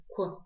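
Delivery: «к» через округлённые губы; округли губы на «к»; к с округлением губ. Shown as a demonstration. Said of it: "при этом округляя губы". (огублённое «к» с призвуком «у»)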